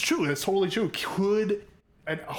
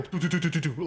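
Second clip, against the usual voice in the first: thumping turkey noise; faster than usual. Retold or imitated. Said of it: "I heard it go".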